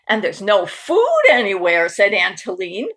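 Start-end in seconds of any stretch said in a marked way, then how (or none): 0.0-1.9 laughing, louder wry remark. Acted. Aunt Helene laughing about the empty house, wry. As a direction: laugh through the complaint.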